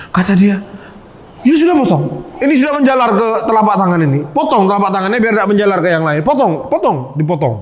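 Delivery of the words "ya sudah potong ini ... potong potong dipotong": healer's order. Retold or imitated. Healer orders finger cut off.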